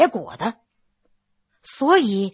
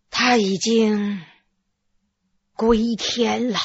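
sighing doctor; 4 semitones lower than usual. A narrator's reading. Doctor tells the widow her husband is dead, low and sighing. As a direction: sigh out the bad news, heavy and low. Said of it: "叹了口气说".

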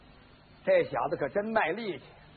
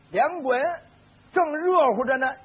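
ordinary delivery

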